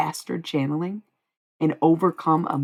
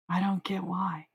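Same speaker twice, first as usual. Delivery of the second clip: softer echo, "don't" leaned on and falling; quiet repeat; 4 semitones higher, 5 dB quieter than usual. Real, not acted. Streamer repeating to herself about critics, softer. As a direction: let it sink back, almost to herself.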